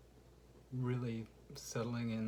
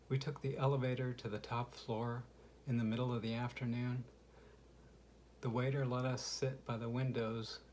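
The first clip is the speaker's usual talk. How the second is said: measured poetry recital, slightly raised voice; poem reading. Acted. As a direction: read your poem aloud to listeners, line by line. Reads own poem aloud.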